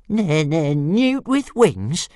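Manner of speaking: high, slow, incredulous stutter; stammering little dragon. A narrator's reading. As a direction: repeat the insult in a high dragon voice. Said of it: "repeated Toothless".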